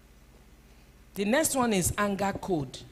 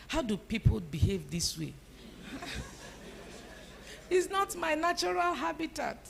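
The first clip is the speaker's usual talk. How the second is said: laughing at herself, pitch jumping higher; 8 semitones higher, 5 dB quieter than usual. Real, not acted. Speaker joking about her temper to congregation, laughing. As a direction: laugh through the admission.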